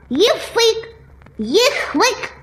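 mangled word; lisping through fat tongue; swollen tongue. Acted. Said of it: "Какой ехфык".

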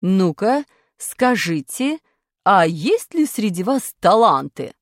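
slow, loud teacher's question; stern teacher quizzing class; strict teacher. Acted. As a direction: demand to know who has talent. Teacher voice in story.

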